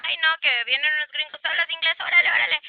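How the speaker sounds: hammed-up flustered excuse; imitating embarrassed reluctance. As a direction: act out someone shy of speaking English. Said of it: "mucha gente le da pena".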